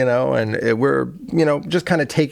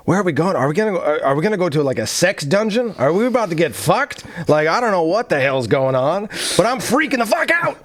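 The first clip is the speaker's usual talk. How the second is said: higher, hammed-up freaking out; comic rising panic, pitch jumping at the end; retold panic; 5 semitones higher than usual. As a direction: build from worried questions to a high mock freak-out. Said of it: "And she's freaking out".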